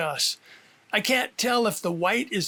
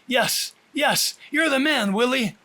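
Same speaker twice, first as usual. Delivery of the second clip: high, loud cheer of relief; 5 semitones higher, 3 dB louder than usual. Acted. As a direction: cheer him on after the skid. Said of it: "I cheer".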